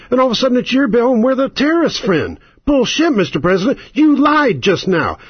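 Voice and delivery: jab each line at the President like a furious senator; imagined angry rebuttal. Pretend. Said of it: "fucking stand up on Tim Russer and say".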